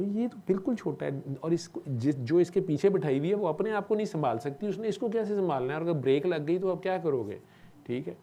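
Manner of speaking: high, urgent scolding of the biker; a worried stranger urging a father on a bike, high and urgent; agitated lecture. Retold or imitated. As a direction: plead with the rider, pitch high and insistent. Lecturing the biker about danger.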